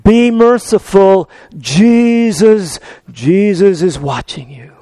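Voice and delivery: slow, spooky unseen voice; haunt him slowly with each word; mysterious voice warning the burglar in the dark; eerie voice from nowhere. Retold or imitated. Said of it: "the voice says again".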